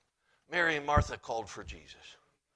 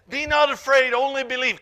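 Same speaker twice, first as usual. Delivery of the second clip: much higher and louder, ringing out; booming proclamation; 10 semitones higher, 13 dB louder than usual. Shown as a demonstration. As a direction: proclaim it to the back row. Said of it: "And Jesus said".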